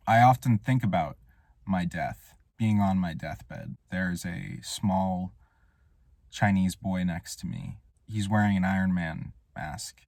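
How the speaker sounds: mock-solemn confession, taking its time; solemn storytelling. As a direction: tell it gravely, with long pauses. Deadpan imagined deathbed story.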